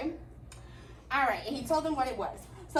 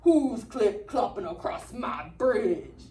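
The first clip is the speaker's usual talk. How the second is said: troll; 5 semitones lower, slower than usual. Acted. Troll challenging the little goat, slow and menacing. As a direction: menace it slowly from under the bridge.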